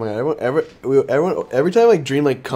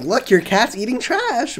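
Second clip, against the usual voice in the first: higher, louder, hurried quote; mock alarm; 10 semitones higher, 6 dB louder, slower than usual. Defending the cat by quoting a complaint, mock alarm. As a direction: imitate someone pointing out misbehavior. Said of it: "can be like".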